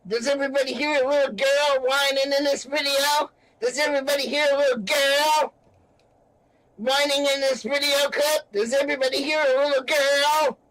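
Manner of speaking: high, taunting movie-gangster voice; Nicky Santoro. Acted. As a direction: jeer like a gangster mocking a whiner. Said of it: "in the style of Nicky Santoro".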